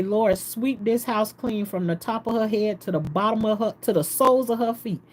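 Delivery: a mild push of force on "Lord, sweep this house clean". Retold or imitated. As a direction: press the prayer a bit harder, imitating her. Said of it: "saying it more aggressive".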